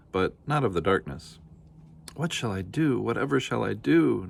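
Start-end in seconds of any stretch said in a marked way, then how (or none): 2.1-4.3 sobbing. Acted. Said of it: "Nanny sobbed".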